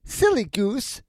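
high, slow witch jeer; scornful old witch. A narrator's reading. Witch scorns Gretel's question, high slow jeer. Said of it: "said the old woman".

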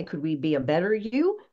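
ordinary talk

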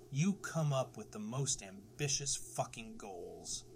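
slow, heavy stress on most ambitious fucking goals; emphatic. Real, not acted. Podcast host to listeners, slow, heavy emphasis. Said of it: "I say that with emphasis".

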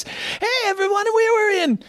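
hammed-up high frontman talking to fans; a rock singer. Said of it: "he'd do it in that voice, a little high, high voice".

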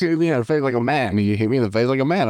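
giggly mock challenge; laughing mock quote. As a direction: retell the dare while cracking up. Laughing retelling of the dare.

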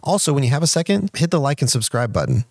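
upbeat scripted podcast reminder; promo read. A narrator's reading. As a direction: read it as a polished listener appeal. Reads the support reminder.

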